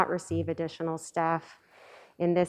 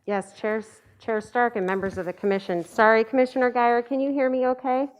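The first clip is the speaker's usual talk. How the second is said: muffled; 5 semitones higher, 4 dB louder than usual. Real, not acted. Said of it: "It's pretty muffled".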